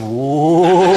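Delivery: loud startled whoa; mock gasp of surprise. Transplant recipient greets the donor's mourners, mock startled. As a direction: act stunned at seeing your own face.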